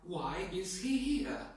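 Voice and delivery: slow, mildly surprised question. Shown as a demonstration. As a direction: draw it out in mild surprise. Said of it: "If you're surprised".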